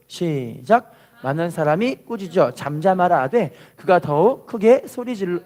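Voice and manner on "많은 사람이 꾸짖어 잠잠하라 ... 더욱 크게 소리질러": measured reading; scripture reading. Shown as a demonstration. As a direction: read the verse aloud for the people. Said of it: "따라할게요". (말씀을 또박또박 읽듯이)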